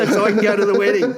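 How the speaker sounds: fast, laughing through the punchline; laughing while saying it. Real, not acted. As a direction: giggle it out quickly. Joke punchline repeated laughing.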